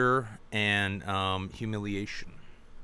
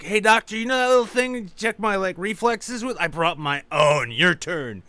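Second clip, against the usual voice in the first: wired, loud and high-pitched tweaker; high on meth guy; 10 semitones higher, 8 dB louder than usual. Retold or imitated. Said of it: "He's like".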